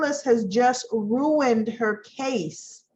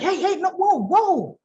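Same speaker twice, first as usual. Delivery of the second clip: higher, urgent objection; alarmed Jack; 7 semitones higher than usual. Retold or imitated. Jack stopping Phyllis's yelling, higher and urgent. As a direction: break it up, alarmed. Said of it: "he's like".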